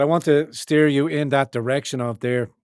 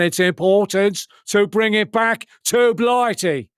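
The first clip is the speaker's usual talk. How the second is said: higher, mock English accent greeting a friend; hammed-up English accent, as if toasting a mate; put-on English accent; 3 semitones higher than usual. Streamer greets Daddy Dragon in a put-on English accent. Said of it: "Apologies for the accent there".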